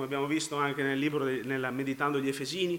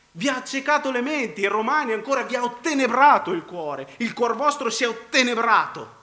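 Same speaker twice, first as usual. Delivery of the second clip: slightly raised, emphatic pulpit voice; forceful preaching; 5 semitones higher, 5 dB louder than usual. Real, not acted. Preacher citing Paul on blinded minds, forceful preaching. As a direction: preach it with mounting insistence.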